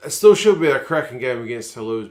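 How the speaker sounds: excited hype. Real, not acted. Hyping the upcoming match.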